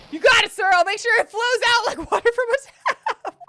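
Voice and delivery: voicing detective.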